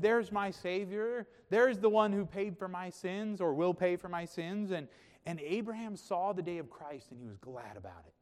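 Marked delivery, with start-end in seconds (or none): 0.0-4.7 high, loud voicing of rejoicing; joyful proclamation. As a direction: proclaim it like a glad discovery. Preacher voices Abraham rejoicing at Jesus.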